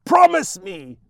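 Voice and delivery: high, loud mad shriek. Acted. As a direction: shriek it like a mother gone mad. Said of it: "she shrieks".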